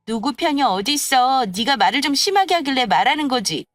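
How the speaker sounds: mildly heated comeback; a touch of exasperation; indignant retort. Acted. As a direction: argue back, fed up with her. Friend argues back at rival.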